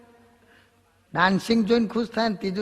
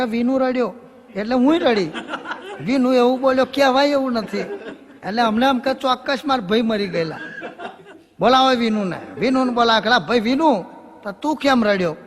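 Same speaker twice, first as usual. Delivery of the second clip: put-on higher and louder, excited old woman; 4 semitones higher, 5 dB louder than usual. Diwali ba explaining why she cried, excited loud granny. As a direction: complain breathlessly like a village granny.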